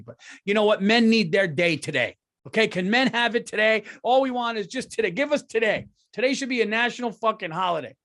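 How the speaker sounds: high, loud, fired-up rant; punchy rising demand; excited rant. Real, not acted. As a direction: whip the crowd up. Ranting demand for men's day.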